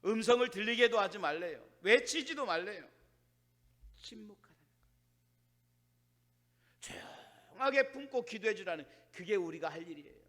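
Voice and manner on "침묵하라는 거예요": very soft, almost vanishing; hushed. Real, not acted. Preacher tells congregation God wants silence, hushed. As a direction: let the word sink into near silence. Relays God's order to be silent.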